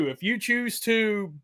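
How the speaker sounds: mock book narration. Shown as a demonstration. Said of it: "And it's like".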